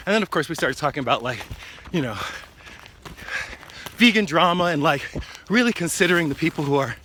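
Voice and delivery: out of breath mid-run; while running. Real, not acted. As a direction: talk between running strides. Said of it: "we've probably been running for about an hour".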